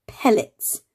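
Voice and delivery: Pellets whispered with a puffed p; breathy sounded word. Shown as a demonstration. Teacher sounding out a word, whispered Pellets.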